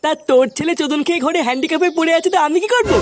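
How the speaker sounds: a sneering, dismissive parroting of the other man's words; mocking echo. Kaluya sneers back the other father's complaint, mocking echo. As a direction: throw his own words back at him with scorn.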